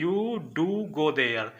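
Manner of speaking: slow, stressed "do" in "You do go there"; "do" said slowly and firmly with weight; emphatic do. Shown as a demonstration. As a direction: lean hard on "do", drawn out. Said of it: "अगर आप इसको जोर देके ज़बरदस्ती काम करवाना चाहते हैं".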